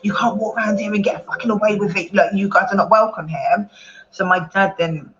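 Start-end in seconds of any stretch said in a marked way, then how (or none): 0.0-3.7 quoting the thugs' threats. Retold or imitated.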